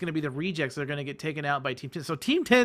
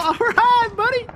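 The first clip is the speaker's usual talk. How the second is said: laughing; 9 dB louder, slower than usual. Real, not acted. Caster laughs at a climber.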